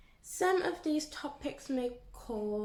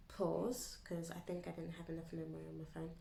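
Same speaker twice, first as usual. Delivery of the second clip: breathy whispered aside; 4 semitones lower, 8 dB quieter than usual. Real, not acted. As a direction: drop to a whisper mid-story. Aside about phone memory.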